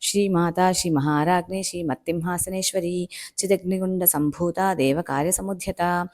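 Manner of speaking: measured recital of Sanskrit names; verse recitation. Shown as a demonstration. Teacher reads the first verse to learners, measured recitation. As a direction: recite the holy names with long vowels held.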